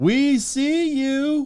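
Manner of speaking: very high, mocking, sarcastic taunting call-out. Imagining calling out to a man bear crawling toward them, imagined sarcastic call-out. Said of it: "I'm so sarcastic that if I couldn't".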